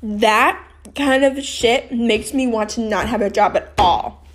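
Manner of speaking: real anger with loud stressed words; pissed off. Real, not acted. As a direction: vent angrily, punching key words. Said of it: "Pisses me off so much".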